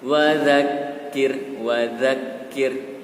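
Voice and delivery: slow, distinct za in "Wa dzakir"; clear za sound. Shown as a demonstration. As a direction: articulate the za of "Wa dzakir" clearly, apart from da. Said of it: "huruf za-nya jangan sampai lupa, harus jelas".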